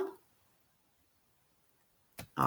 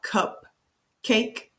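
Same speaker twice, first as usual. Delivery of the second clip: "cupcake" broken into cup, pause, cake; "cupcake" syllable by syllable, for a learner; split into syllables; 4 semitones higher than usual. Shown as a demonstration. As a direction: say "cupcake" in two separate beats. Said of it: "Can you clap out".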